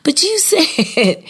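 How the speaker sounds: put-on high, insistent nagging child, breaking into a laugh; pleading child. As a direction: mimic a kid who won't let go of a promise. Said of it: "my son just kept saying".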